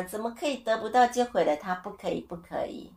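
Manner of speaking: 到 in 得不到 is pushed up as an indignant challenge; indignant disbelief. Real, not acted. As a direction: throw the saying back in disbelief, lightly. (难以置信地反问，语气不满)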